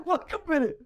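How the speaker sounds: high, strained cry of leave me be with a laugh; imitating the father pleading through tears. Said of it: "Ben de onlara dedim".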